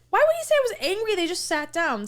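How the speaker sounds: mock incredulous, fast; retold disbelief. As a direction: rattle it off, baffled. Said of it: "And I was like".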